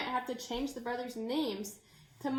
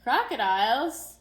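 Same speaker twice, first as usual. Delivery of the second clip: alarmed question; 8 dB louder than usual. Acted. Child alarmed at crocodiles.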